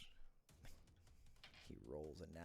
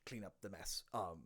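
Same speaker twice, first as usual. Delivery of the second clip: dwarf on the radio; 3 dB louder than usual. Acted. Dwarf reports on communication device.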